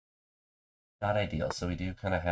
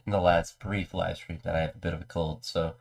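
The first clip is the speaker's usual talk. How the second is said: normal talking voice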